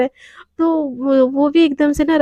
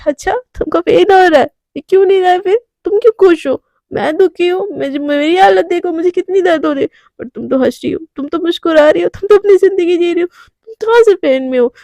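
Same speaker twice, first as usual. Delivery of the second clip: higher, raised hurt complaint; drunken accusing whine; 4 semitones higher than usual. Acted. Drunk Radhika accusing Devika of faking pain, raised and high. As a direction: accuse her, pitch up.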